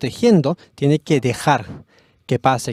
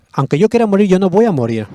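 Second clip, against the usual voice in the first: raised, higher voice, firm and resolute; loud, determined proclamation; defiant vow; 5 semitones higher, 4 dB louder than usual. Acted. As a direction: declare it like a man who won't be stopped.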